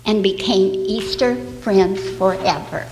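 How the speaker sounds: put-on bright storyteller voice for little kids; reading to children. Storyteller reading an Easter tale to the children. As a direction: tell it gently like a bedtime story.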